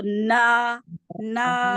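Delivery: long نا driven out through the mouth; نا pushed outward. Shown as a demonstration. Teacher coaches a student to push out, oral نا. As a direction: push each نا forward, keeping it out of the nose. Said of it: "باہر کی طرف دھکا مارنا ہے آواز کو".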